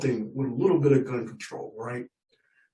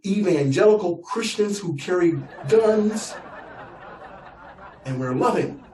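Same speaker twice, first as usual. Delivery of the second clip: hammed-up proud rancher, higher pitch; defiant gun owner; 3 semitones higher than usual. Ranch gun owners lecturing the nephew, mock proud. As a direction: preach gun rights like a redneck.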